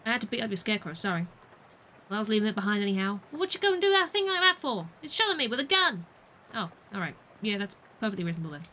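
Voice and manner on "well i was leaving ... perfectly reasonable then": louder indignant folksy voice, then meek; mock outrage settling into sheepish agreement; hammed-up farmer quarrel. Player voicing both sides of a scarecrow argument, hammed-up. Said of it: "I'm voicing the characters".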